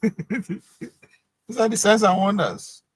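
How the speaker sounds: laugh, then draw the words out high; amused laughing. Real, not acted. Host relishes the signs and wonders, laughing.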